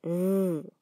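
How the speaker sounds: Z as a held, buzzing "zzz"; soft voiced S. Shown as a demonstration. Teacher demonstrating that the German S is soft, Z as a buzzed "zzz". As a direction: draw out Z as a soft voiced hiss, no vowel. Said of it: "La S se pronuncia suave".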